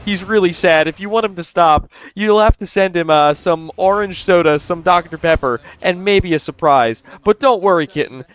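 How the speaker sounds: high, sing-song mock sweet-talk; mocking impersonation. Host mimics the caller coaxing kitten to send soda, mocking impersonation. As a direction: pitch it up and spoon-feed the ridiculous request.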